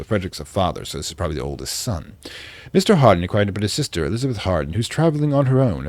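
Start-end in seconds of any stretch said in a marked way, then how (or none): 2.7-5.9 put-on light British accent for a diary entry; reading a diary in a mild British accent; vaguely British accent. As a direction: read it like a 1920s English diarist. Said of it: "I'm doing a vaguely British accent".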